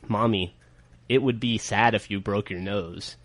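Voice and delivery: put-on slow, soft, quietly menacing little girl; menacing child. Dad retelling his daughter's threat, slow and quiet. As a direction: let the threat hang, slowly. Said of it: "And Millie said".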